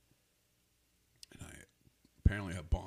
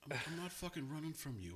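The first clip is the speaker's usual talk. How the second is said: retold protest; 9 semitones higher than usual. Driver answering the cop's accusation, retold protest. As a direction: act out protesting innocence.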